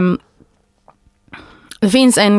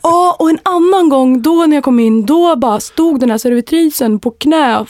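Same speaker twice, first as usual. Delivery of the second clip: broad Stockholm dialect, higher pitch; Stockholm accent; 5 semitones higher than usual. Retold or imitated. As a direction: play a boastful Stockholm restaurant worker. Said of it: "Vad härligt att höra stockholmsdialekten komma fram".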